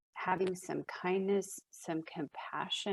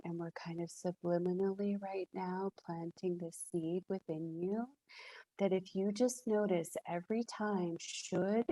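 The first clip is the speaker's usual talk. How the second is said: softer, playful mock-hypnotic murmur; evil hypnotic voice; 3 dB quieter than usual. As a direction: lull them like a cartoon hypnotist. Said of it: "this is my evil hypnotic voice".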